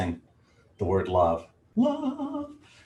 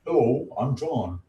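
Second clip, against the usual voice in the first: higher, put-on introduction voice; John Holland impression; 4 semitones higher than usual. Card reader mimicking the deck's author, in a put-on voice. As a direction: playfully speak on the author's behalf. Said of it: "I talk like that on his behalf".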